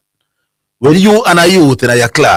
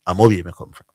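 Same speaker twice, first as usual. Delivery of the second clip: calmly; 6 semitones lower, 8 dB quieter, faster than usual. Retold or imitated. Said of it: "very calmly said to him".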